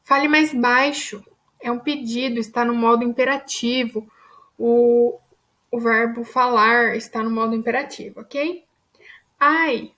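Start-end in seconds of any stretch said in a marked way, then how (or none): 0.0-1.2 command tone. Shown as a demonstration. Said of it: "sugere uma ordem". 9.4-9.9 pained ouch. Shown as a demonstration. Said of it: "significado de que está doendo".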